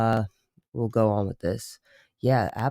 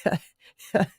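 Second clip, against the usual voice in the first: imitated sweet-but-harsh friend; 7 semitones higher, much slower than usual. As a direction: imitate a friend's dainty swearing. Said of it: "She's like".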